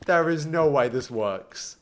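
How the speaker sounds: slow, measured disbelief at normal volume. Real, not acted. Streamer doubting the build works, slow restrained disbelief. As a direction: say it slowly, controlled and incredulous. Disbelief, first subdued take.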